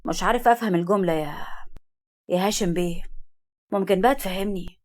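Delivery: understated sharp demand. A narrator's reading. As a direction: demand an explanation with restrained edge. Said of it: "الجد بص لهاشم وقال له بحدة".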